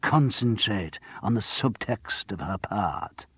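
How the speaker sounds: slow, earnest parody of a grand actress; mock intensity. John B mocking the actress to Charles, slow and earnest. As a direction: ham up her breathless intensity. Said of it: "dropped into a parody of her thrilling intensity".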